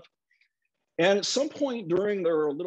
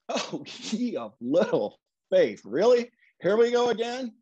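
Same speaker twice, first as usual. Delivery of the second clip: chuckling Jesus; 3 semitones higher, 3 dB louder than usual. Retold or imitated. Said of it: "he almost chuckles a little bit".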